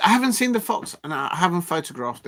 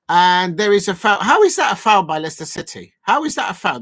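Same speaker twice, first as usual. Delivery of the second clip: louder, indignant disbelief at the foul; outraged protest; 3 semitones higher, 8 dB louder than usual. Real, not acted. Fan protests a foul given against Leicester, louder and outraged. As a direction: shout at the ref's call.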